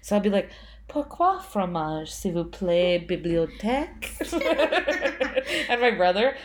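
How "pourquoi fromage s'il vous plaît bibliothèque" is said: slow, lightly put-on fake French; string French words as if fluent. Tired on a road trip, playing at fake French. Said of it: "like I'm speaking French".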